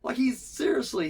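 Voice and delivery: mock outrage about a whiny character; exasperated high rant. Real, not acted.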